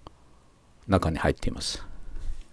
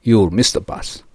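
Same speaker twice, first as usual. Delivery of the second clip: slow natural example. Shown as a demonstration. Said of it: "実際の英語らしい言い方ですね".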